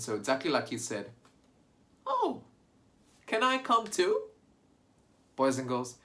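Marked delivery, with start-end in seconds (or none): 2.1-4.2 high duck voice. Acted. Ducky Lucky asks to join.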